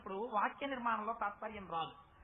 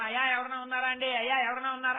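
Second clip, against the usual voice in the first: calling for help; 7 dB louder than usual. Acted. Man in well calling out.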